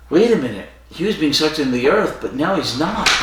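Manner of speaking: amazed crowd. Retold or imitated. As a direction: gasp it out as they realise. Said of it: "And they're like".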